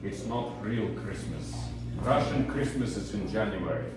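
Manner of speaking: put-on a mild Russian teacher's accent, slowed down. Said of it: "in his strong Russian accent".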